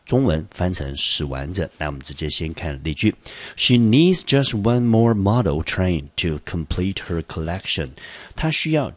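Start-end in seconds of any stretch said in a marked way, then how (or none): 3.6-7.9 slow, careful reading of the example; teacher reads the sentence slowly for students. Shown as a demonstration. 老师放慢速度朗读例句. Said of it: "teacher reads example sentence".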